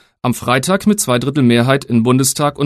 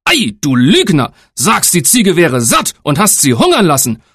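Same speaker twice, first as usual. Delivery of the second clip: angry father; 4 semitones higher than usual. Acted. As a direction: scold the lying son. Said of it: "in seinem Zorne".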